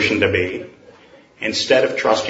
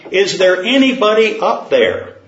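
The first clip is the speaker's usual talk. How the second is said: raised, higher call upward; mild acted yell; 6 semitones higher than usual. Man on the cliff yells up for anyone, mildly raised. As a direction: shout up to the sky, not full force. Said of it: "Finally he yelled".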